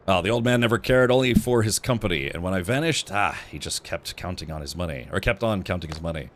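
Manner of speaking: put-on dying son's grievance in an amateur French accent; fake French accent. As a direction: voice a wounded, bitter character with makeshift French. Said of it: "so I can do these voiceovers".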